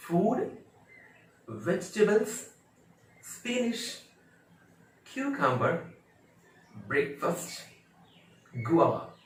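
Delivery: high, separated model words from फूड to गुआवा; each word from फूड to गुआवा distinct, pauses between; careful pronunciation recap. Shown as a demonstration. Teacher reviewing today's words, careful pronunciation demonstration. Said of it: "कौन कौन से word आज सीखे हैं".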